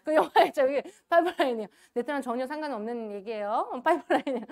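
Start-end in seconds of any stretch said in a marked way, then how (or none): 0.0-1.7 higher, louder title said through laughter; laughing announcement. Shown as a demonstration. Speaker laughing as she names the movie title, giggly.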